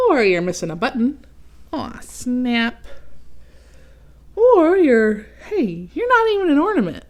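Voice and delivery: lightly voiced arrogant ornament; snooty Otto. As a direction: look down on the others.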